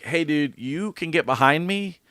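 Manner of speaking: slow, measured firmness; firm, not yelling. Retold or imitated. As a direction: calmly hold your ground with another driver. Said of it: "I'm not yelling at him".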